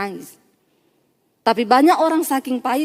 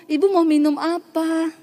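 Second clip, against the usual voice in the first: higher, gently courteous imitation; polite offer; 4 semitones higher than usual. Healed woman offers the counselor a drink, politely. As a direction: offer it sweetly, like a grateful host.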